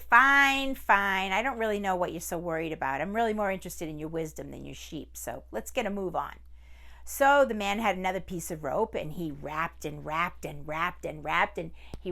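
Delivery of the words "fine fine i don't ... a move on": mildly impatient tiger. Acted. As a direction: tiger wanting to get on with it. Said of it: "So the tiger said".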